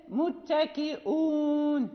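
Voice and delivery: very slow "متكئون" with a glottal stop before "uun"; fully sounded hamza. Shown as a demonstration. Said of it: "أن تحقق الهمزة".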